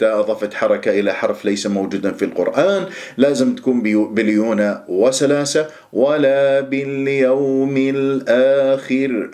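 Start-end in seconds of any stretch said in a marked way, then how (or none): 5.9-9.3 باليوم with a soft gliding waw, very slow; smooth soft waw. Shown as a demonstration. Teacher modelling the easy waw of باليوم, slow. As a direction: let the waw in باليوم flow gently. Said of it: "هكذا بهذه الطريقة".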